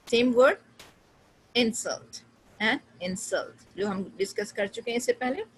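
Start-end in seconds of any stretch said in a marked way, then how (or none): 1.6-3.7 "insult" first on IN, then on SULT; noun then verb stress. Shown as a demonstration. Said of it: "difference between noun and verb".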